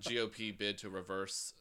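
lightly imitated anchorman with adjusted S; Dan Rather. Shown as a demonstration. Coached to sound like a straight anchor, light newsman impression. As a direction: read it like a veteran newsman. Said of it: "like, a Dan Rathers kind of thing".

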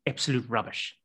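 put-on soft, dismissive South African accent; light South African accent, quietly scornful; Kevin Peterson South African accent. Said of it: "imagine you're Kevin Peterson".

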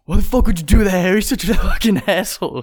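mock anger. Mock scolding Harry.

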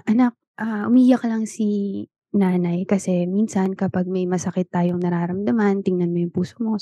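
put-on soft, gentle voice for a little child; tender soothing. Mother gently comforting her child, softly. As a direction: hush it down like comforting a kid.

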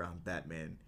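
low, soft Batman murmur; whispered Batman. Retold or imitated. Imagining Michael Keaton in your ear, whispered Batman. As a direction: drop it low and hushed, as Batman. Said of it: "if you heard fucking Michael Keaton whisper".

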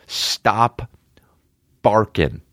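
whispered stop barking at the dogs; hushed scolding. Real, not acted. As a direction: hush the dogs without shouting. Telling his barking dogs off.

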